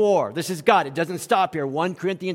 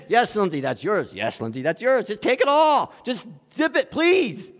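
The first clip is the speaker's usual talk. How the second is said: weary parent; 3 semitones higher than usual. Retold or imitated. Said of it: "I'm like".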